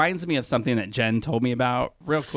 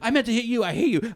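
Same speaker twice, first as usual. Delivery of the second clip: higher-pitched imitation of an angry outburst; mock yelling; 9 semitones higher, faster than usual. Fired man turning on the boss, mock angry. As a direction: snap it at the boss, retold lightly. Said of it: "he's yelling".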